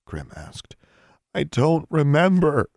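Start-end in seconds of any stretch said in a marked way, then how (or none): 1.3-2.7 high, loud, frustrated; upset protest. A narrator's reading. Alexandra pressed about the stolen opal, upset protest.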